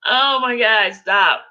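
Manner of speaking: real giggles, begging them to stop; laughing. Real, not acted. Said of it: "Toy is so funny".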